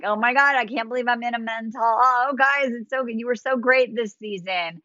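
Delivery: lightly voiced flirty gusher; playful flirting. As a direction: play at flirting with an audience. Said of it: "you could flirt with the audience".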